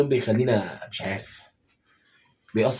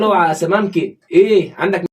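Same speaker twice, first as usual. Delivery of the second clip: higher, louder, slow mock call to the fishmonger; mock phone call; 7 semitones higher, 9 dB louder, slower than usual. Husband pretends to phone the fishmonger, hammed-up louder call. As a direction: ham up ringing the fish shop.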